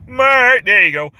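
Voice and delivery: high, loud, drawn-out call; Homer Simpson. Acted. Homer calling his wife, high drawn-out cartoon wail. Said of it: "a Homer Simpson impression".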